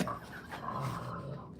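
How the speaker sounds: wordless breathless mock sob; hammed-up blubbering noise; fake sobbing. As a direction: let the pretend crying shudder out. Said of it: "blubbering like that".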